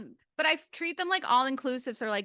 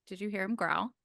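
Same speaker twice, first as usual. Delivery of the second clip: soft dog mom voice; 4 dB quieter than usual. Real, not acted. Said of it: "slip into my dog mom voice".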